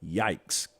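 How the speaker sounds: a low, soft, deflated yikes; mock lame yikes. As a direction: toss it off like a weak comeback. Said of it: "They say".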